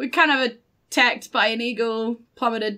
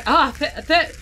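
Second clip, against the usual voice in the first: coughing, halting thank-you; spluttering thanks; 4 semitones higher than usual. Acted. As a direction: choke out thanks after a drink. Spluttering thanks after drinking from bucket.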